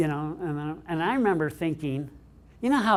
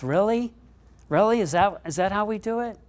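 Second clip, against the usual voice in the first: incredulous really; 6 semitones higher, 3 dB louder than usual. Real, not acted. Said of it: "rhetorical disbelief".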